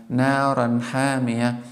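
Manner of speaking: short, clear nun before hamiya; teacher's clear naran hamiya; correct izhar on naran hamiya. Shown as a demonstration. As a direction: pronounce the n in naran clearly, without stretching it. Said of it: "You should pronounce like".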